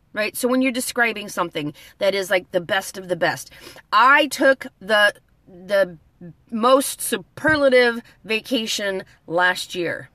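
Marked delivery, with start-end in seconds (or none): 3.9-10.1 slow example sentence. Shown as a demonstration. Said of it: "You don't even have to say most".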